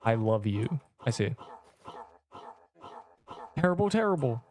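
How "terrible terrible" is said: higher, falling try-out of the line. Shown as a demonstration. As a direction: say it like a game character. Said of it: "How does he say it?".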